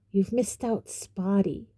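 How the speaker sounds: mildly hissed taunt. Acted. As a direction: needle her slyly. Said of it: "Peeves hissed in her ear".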